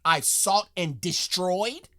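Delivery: slow, rising, mock-baffled repeat; incredulous mock echo. Mocking the soldier's phrasing for viewers, slow incredulous echo. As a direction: echo his words like they're absurd. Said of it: "to talk like that".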